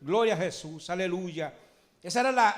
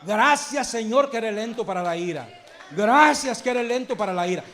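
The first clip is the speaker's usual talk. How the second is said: louder, ringing thanks ending in a shout; loud praise; 4 dB louder than usual. Shown as a demonstration. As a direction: proclaim the thanks out loud to the whole church. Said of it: "Dígale". (acción de gracias proclamada en voz alta, terminando en grito)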